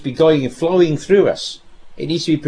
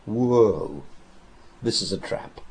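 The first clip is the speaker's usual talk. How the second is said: hushed realization; 6 semitones lower, 7 dB quieter, slower than usual. Retold or imitated. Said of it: "Any sensible person would say".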